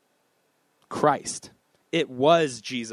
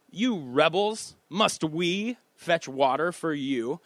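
higher, slow mock scolding of the rebels; mock angry rebuke; 5 semitones higher, slower than usual. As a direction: act out Moses scolding the people, lightly. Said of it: "was angry".

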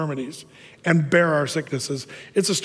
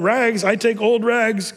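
cried out; 4 semitones higher than usual. Acted. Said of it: "cried the sobbing".

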